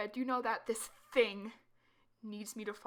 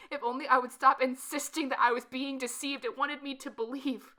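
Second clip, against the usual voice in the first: loud, building desperation; rising anguish; 7 dB louder than usual. Acted. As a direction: voice swelling with anguish. Narrator's rising distress.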